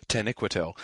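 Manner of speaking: Taniquetil with Christopher's syllable stress; Christopher's pronunciation. Shown as a demonstration. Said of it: "did not have the stress on that syllable".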